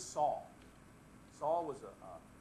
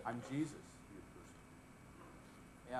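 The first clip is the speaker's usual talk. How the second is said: laughing through the line; 4 semitones lower, 10 dB quieter, much slower than usual. Acted. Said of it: "he says".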